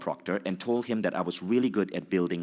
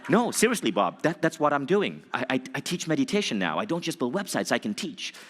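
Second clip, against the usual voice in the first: eager protest; 5 semitones higher than usual. Retold or imitated. Defending himself to Bob.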